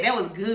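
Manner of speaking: "That" leaned on, tune rising; young kids' emphasis. Shown as a demonstration. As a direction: say "That was good" like the young kids do. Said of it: "as the young kids say".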